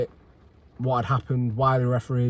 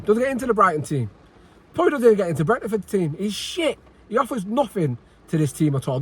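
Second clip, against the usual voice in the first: high-pitched rant; 5 semitones higher than usual. Real, not acted. Ranting fan, pitch up throughout.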